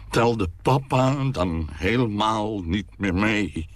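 a hint of a hurt father, slow; self-pitying. A narrator's reading. Father rehearsing a reproach to his daughter, mildly self-pitying. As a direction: plead hurt in a lightly voiced way.

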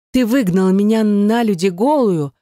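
high, tearful cry of hurt; exclaiming. A narrator's reading. Wife cries out at her ex-husband in hurt. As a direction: cry it out, stung and ashamed. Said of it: "воскликнула она".

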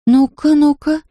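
high, intrigued little urging; eager curiosity. A narrator's reading. Anfisa hurries off to check the mirror, high and intrigued. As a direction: pitch it up, keen to see.

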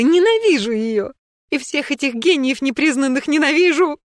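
истеричный крик, всё выше и громче; сорваться в истерику к концу; в истерике. Acted. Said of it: "закричала Снежана уже в истерике". (Снежана в истерике кричит о муже и кантате, громко и высоко)

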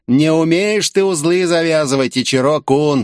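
high, creaky taunt. A narrator's reading. Villain Taisho taunting the hero who chases him, creaky. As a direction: creak it out at your pursuer. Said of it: "проскрипел Тайсё".

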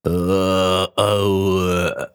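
dazed groaning mumble; incoherent mumbling. Acted. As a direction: mumble after a blow. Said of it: "бессвязно бормоча".

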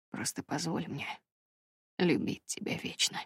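soft low-key man's confession of love; hushed heartfelt lover's plea; Brandon, tender and remorseful. A narrator's reading. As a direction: murmur it close, sincere and humble. Brandon's voice held.

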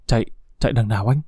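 quick, breathless frightened asking; rushed panicky whisper-like plea; panting question. A narrator's reading. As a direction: gasp it out fast, lost and scared. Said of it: "Hoan vừa thở vừa hỏi".

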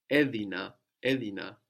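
edina with the accent on the opening e; edina, accented right at the front; stress pulled back. Shown as a demonstration. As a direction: stress the first syllable of edina. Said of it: "this accent change for the past".

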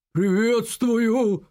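slow drawn-out guard's grumble; a hint of a giant guard, slow and drawn out; grumbled low greeting. A narrator's reading. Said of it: "пробурчал он низким голосом". (медленное ворчливое приветствие стражника)

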